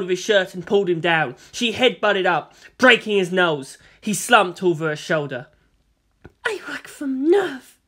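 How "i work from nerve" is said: high, slow, drawn-out voice; whispered menace. A narrator's reading. Captive woman to the man she attacks, whispered menace. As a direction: say it slowly and high into his ear. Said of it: "Maya whispered to his ear".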